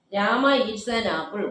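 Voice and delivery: very slow, each word spaced out; slow dictation. Shown as a demonstration. Teacher reads the example sentence to students very slowly. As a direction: spell the sentence out word by word for the class. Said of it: "question tag ഏതാ?".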